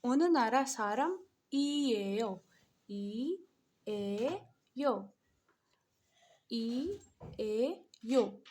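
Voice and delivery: "ओन नारा सारम ई ए यो" stretched slowly, syllable by syllable; very slow Korean drill. Shown as a demonstration. Teacher slowly drilling the full Korean question. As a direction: draw each syllable out for the learner. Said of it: "मतलब आप कहाँ के रहने वाले हैं".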